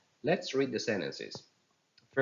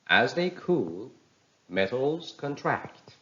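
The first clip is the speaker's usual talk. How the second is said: slow, higher reading, "contract" stressed on TRACT; verb stress; 5 semitones higher, 3 dB louder, slower than usual. Shown as a demonstration. Teacher reads example sentence, "contract" stressed on TRACT. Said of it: "second part of the word takes".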